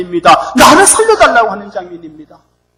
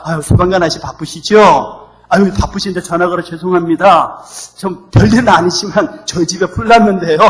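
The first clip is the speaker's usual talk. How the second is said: overpolite caller; 6 semitones lower, 4 dB quieter than usual. Retold or imitated. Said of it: "이렇게 신고하는 바보".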